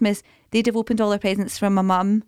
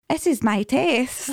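put-on child voice; 4 semitones higher, much slower than usual. The speaker with straw.

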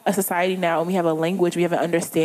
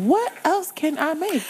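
eager cook; 10 semitones higher, slower than usual. Retold or imitated. Acting out eager home cook.

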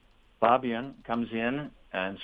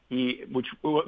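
normal talking voice

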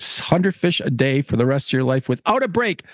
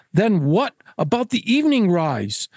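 higher-pitched, put-upon gentleman; protesting Caswell; 4 semitones higher than usual. Acted. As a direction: press the keeper for a way out.

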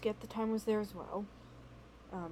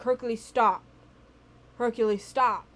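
firm call, louder; retold yelling at the cat; 7 dB louder than usual. Owner yelling at her cat to stop, raised voice. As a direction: call the cat back sharply. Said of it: "I'm yelling at Hercules to stop".

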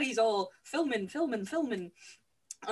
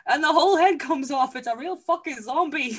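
loud excited Fred; 4 semitones higher, 9 dB louder than usual. Acted. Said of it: "And Fred is all".

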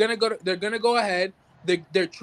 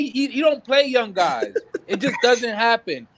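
chuckling through the words; laughing; 3 semitones higher than usual. Real, not acted. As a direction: laugh while talking. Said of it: "you know why I'm laughing".

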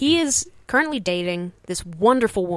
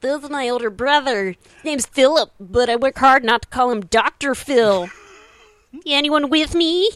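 higher and louder, an eager open-mic comic working the room; hyped stand-up comic; 5 semitones higher, 4 dB louder than usual. Retold or imitated. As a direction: pump up the crowd like a bar-show comic. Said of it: "It'd be like".

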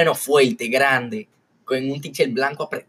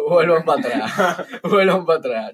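repitiendo riendo; 4 semitones higher, 3 dB louder than usual. Retold or imitated.

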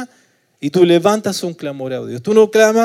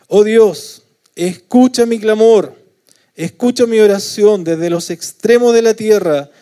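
impassioned psalm reading; 4 semitones higher, 5 dB louder than usual. Acted. Psalm cry read aloud.

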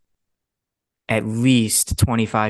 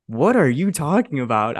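retold retort; 3 semitones higher than usual. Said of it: "I said that like that to him".

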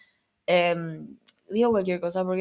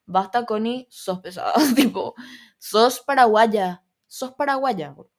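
fed-up friends; 4 dB louder than usual. Retold or imitated. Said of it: "Mis amigos están hartos".

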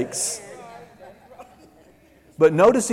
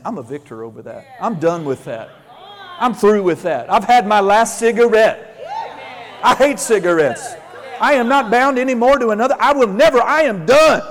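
building declaration; 4 semitones higher, 3 dB louder, faster than usual. Shown as a demonstration. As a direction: build from a murmur to a triumphant claim. Modeling confident self-talk.

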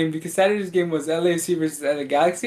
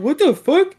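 high-pitched indignant imitation; mock outrage; 9 semitones higher, 3 dB louder than usual. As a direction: act out a friend's indignant disbelief, pitched up. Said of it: "Sergio was fucking mad".

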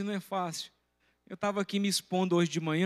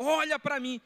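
mild retold shout; 7 semitones higher than usual. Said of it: "E o cara baixava a cabeça".

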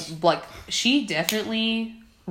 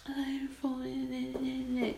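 put-on Australian accent; 8 semitones higher, 8 dB quieter, much slower than usual. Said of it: "I don't know how to do an Australian accent".

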